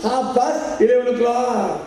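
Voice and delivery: slow careful English; mock English reply. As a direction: recite it slowly like the lady did. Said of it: "ती म्हणली". (हळू इंग्रजी, परदेशी बाईची नक्कल)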